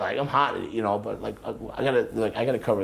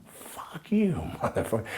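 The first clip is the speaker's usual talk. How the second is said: mild mock yell; a touch of retold fury; retold angry retort; 7 semitones higher, slower than usual. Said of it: "I went".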